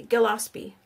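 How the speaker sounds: GILLESPIE as guh-LOSS-pee with a hard G; settled pronunciation guess. Shown as a demonstration. Host settling on a viewer's name, Gillespie with hard G. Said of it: "I'm sorry if I butcher your name".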